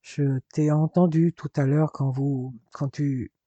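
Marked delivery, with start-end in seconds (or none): 2.7-3.3 breathy whisper, trailing off; a hushed, hesitant half-phrase; embarrassed whisper. Acted. Jeremy admitting to his brother he overheard them, whispered.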